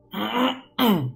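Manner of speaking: choking throat clear; strained, choking throat clearing; strangled voice. Real, not acted. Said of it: "you sound like you're choking".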